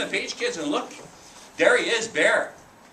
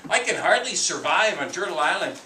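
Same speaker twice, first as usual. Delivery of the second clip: boastful bear; 5 dB louder than usual. Acted. Bear bragging to Raven about his size, louder voice. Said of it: "Bear says".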